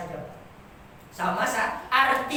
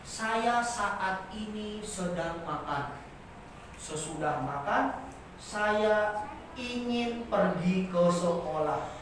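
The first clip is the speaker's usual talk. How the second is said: stiff textbook speech; 3 semitones lower, 4 dB quieter, slower than usual. Retold or imitated. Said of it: "seperti anak S D yang baru belajar".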